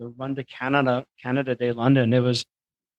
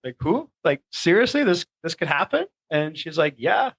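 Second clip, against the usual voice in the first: disbelieving excitement; 3 semitones higher than usual. Retold or imitated. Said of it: "I'm like".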